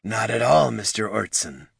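growled through gritted teeth; words forced through clenched teeth. Acted. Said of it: "growled through gritted teeth".

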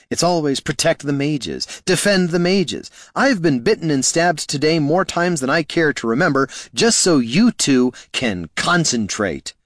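high, indignant griping; aggrieved complaint. Acted. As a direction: complain bitterly, drawing out the last words. Bard griping about shielding mages.

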